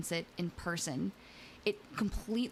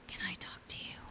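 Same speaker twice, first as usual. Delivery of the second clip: imitated creepy whisper, very soft; 8 dB quieter, faster than usual. Retelling the stranger's words at the window, soft whisper. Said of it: "when he whispered that".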